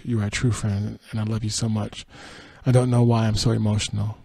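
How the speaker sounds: headline, then story in an even reading voice; news read. Acted. Host reading Meghan McCain's tearful return, news read. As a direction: read the item out evenly. Reads a quoted statement.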